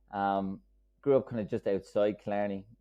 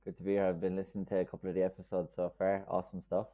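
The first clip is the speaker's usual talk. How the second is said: Kerry accent; faster than usual. Real, not acted. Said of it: "Jack's Kerry accent from Ireland".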